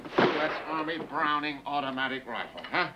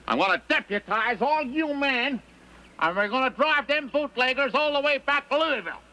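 rousing rally call; 11 semitones higher than usual. Acted. Rallying the townsmen against the bootleggers, rousing call. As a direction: fire up the crowd of men.

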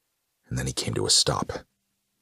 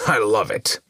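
high, loud delighted villain; Carnage crying out; 8 semitones higher, 5 dB louder than usual. A narrator's reading. Carnage grinning at bottled conscience, gleeful loud cry. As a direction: exclaim it with wicked relish. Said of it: "Carnage cried with a pointy-toothed smile".

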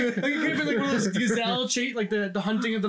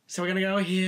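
dry English voice; 5 semitones lower than usual. Retold or imitated. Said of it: "In that very dry, dull English voice".

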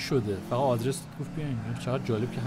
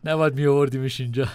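louder, forceful character line; 7 dB louder than usual. Acted. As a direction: push it out hard. Character line voiced loudly. (با صدای بلند و محکم)

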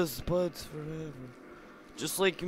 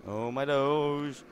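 slow drawn out; slower than usual. Shown as a demonstration. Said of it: "oh my, oh my Doge".

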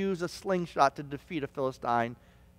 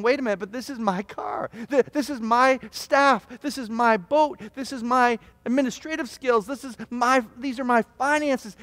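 higher-pitched, insistent mock objection; indignant protest; 6 semitones higher than usual. Preacher voicing a quarrel over belongings, mock indignation. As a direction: argue ownership, piling up each claim.

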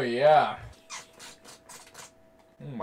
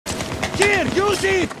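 high drawn-out scream of a name; 5 dB louder, much slower than usual. Retold or imitated. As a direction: shriek it out, very high and slow. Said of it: "My guy just screamed that".

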